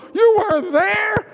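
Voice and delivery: high, loud, slow cry of realisation; joyful shout. Acted. Pastor voicing his grateful cry to God, high loud shout. Contrast with earlier "Where were you?.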